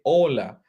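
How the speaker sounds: HOLA said with a silent H, as "OH-la". Shown as a demonstration. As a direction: say "hola" starting straight on the O. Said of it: "H is voiceless". ("hola" with no H sound)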